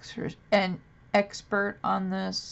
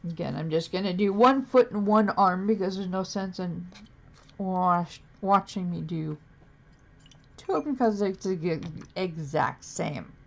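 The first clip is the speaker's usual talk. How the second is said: dry-mouthed, tongue sticking; talking with a dry mouth. Real, not acted. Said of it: "Sorry, my mouth is dry today".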